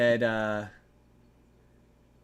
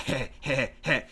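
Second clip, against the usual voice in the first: Beavis laugh imitation; 2 semitones lower than usual. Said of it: "instead of laughing, like, doing the".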